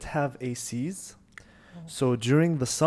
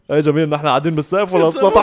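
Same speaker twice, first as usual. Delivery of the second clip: teasing laugh; 2 semitones higher, 7 dB louder, much faster than usual. Retold or imitated. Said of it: "So just like".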